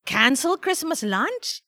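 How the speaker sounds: put-on high, disbelieving child voice; child's rising, incredulous protest; dismayed cry. A narrator's reading. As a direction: question it in shocked dismay. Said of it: "Feliz cried".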